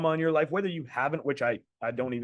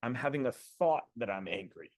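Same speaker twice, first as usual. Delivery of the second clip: softer, calm self-observation; quietly name the thought; soft detached thought; 4 semitones lower, 7 dB quieter than usual. Shown as a demonstration. Coach repeating level two to the call, softly. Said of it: "I'm not just angry".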